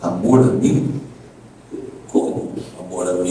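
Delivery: mildly baffled, trailing down; retold puzzlement. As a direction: echo it back as if it makes no sense. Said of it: "achei mais estranho".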